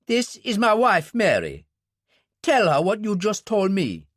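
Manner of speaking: the barman introduces his wife, eager; Billy the barman. Acted. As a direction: play the barman, keen and open.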